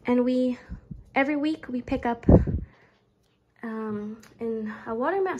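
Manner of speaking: breathless, catching air between words; winded from grocery shopping; out of breath. Real, not acted. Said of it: "sorry, I'm out of breath".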